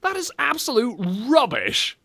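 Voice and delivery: high-pitched indignant squawk; hammed-up disgust, voice leaping up; mock outrage. Outraged mock verdict on the clip.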